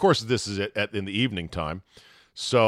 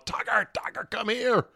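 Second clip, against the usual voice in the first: 1 retold call; 11 semitones higher than usual.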